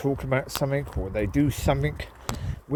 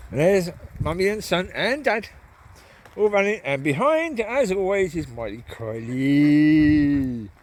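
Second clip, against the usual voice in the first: excited; 3 semitones higher, 3 dB louder, slower than usual. Real, not acted. Watching the dogs run.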